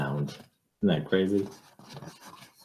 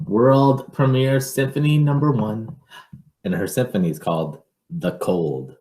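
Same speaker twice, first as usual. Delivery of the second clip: put-on lively read-aloud for children; picture book reading; 5 semitones higher, 5 dB louder than usual. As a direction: read it to a child, with a storyteller's lilt.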